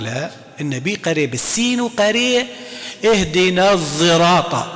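slow recited الصراط with ص blended toward ز; with ishmam. Shown as a demonstration. Teacher showing ishmam in الصراط. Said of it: "الإشمام".

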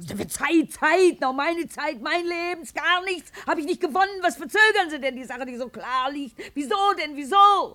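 she's fed up and lets it show, climbing in pitch; exasperated litigant demanding answers; indignant protest. Acted. Plaintiff protests court delay.

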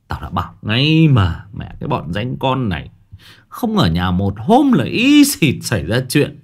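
put-on irritated uncle scolding the boys, sharper at the end; angry scolding. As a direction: scold them like a fed-up uncle. Uncle scolds the kids angrily.

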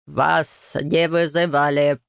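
very slow droning monotone; flat bored refusal, dragged out; guard refuses the family, very slow monotone drone. A narrator's reading. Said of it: "монотонно проговорил мужчина".

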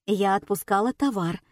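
usual speaking voice

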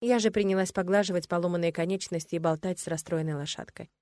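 ordinary delivery, nothing marked

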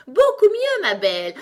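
piercingly high, loud cry, dropping on the last words; increasingly shrill. A narrator's reading. Queen changing as she answers Alice, shrill squeal. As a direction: squeal it out far above normal pitch. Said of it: "la voix se fit de plus en plus aiguë à mesure qu'elle continuait".

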